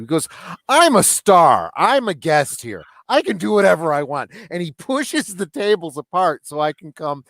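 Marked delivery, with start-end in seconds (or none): 0.7-4.3 grand declaration. Retold or imitated. Acting out actor's grand declaration.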